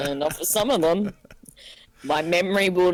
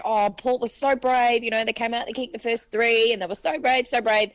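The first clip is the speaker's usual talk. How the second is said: higher-pitched imitation of gushing fans; mock admiration; 7 semitones higher than usual. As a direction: lightly parody everyone's sympathetic praise. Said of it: "everybody was saying".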